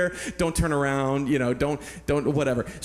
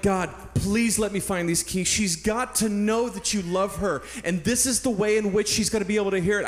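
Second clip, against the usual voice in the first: raised-pitch, heartfelt pleading; fervent prayer; 4 semitones higher than usual. Retold or imitated. Hiker begging God to let him find the keys, fervently. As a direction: plead with God, full of conviction. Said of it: "I just felt it so strong".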